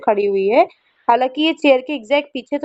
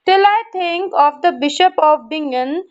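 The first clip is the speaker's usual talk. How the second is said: 1 slow reading; 2 semitones higher, much slower than usual. Shown as a demonstration. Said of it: "teacher reads poem aloud".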